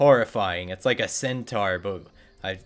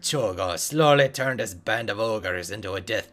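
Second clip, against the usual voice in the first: dwarf NPC voice; 4 dB louder than usual. Acted. Quest giver dwarf praising the player, lightly voiced.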